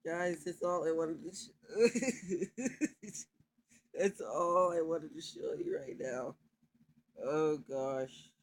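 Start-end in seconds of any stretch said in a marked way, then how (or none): 1.4-6.4 slow, laughing mid-sentence. Real, not acted. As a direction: break into a laugh. Laughing at a funny video.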